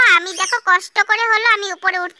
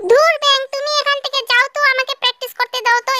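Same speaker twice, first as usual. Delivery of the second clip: annoyed brushing off; 4 semitones higher, faster than usual. Acted. Child annoyed at mother.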